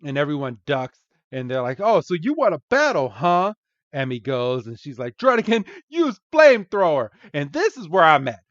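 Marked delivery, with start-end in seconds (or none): 1.8-3.5 cocky, higher, louder taunt; mock challenge. Trainers accept the challenge. 5.2-7.1 high, loud anime trainer order; battle command. Acted. Trainer calls an attack.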